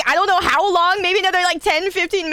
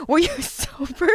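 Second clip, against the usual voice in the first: laughing; 6 semitones higher than usual. Retold or imitated. Laugh breaks the quote.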